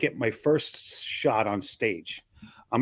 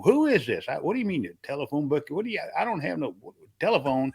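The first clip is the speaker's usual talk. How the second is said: puzzled man on the phone, pitched up; down-south customer; 2 semitones higher than usual. Retold or imitated. Man down south answering a prank phone call, puzzled. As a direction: play a baffled customer down south. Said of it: "the guy would be on the other end".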